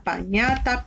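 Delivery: "Pañata" with A in the first syllable; trial vowel A. Shown as a demonstration. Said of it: "busco una vocal que case". ("Pañata" con A en la primera sílaba)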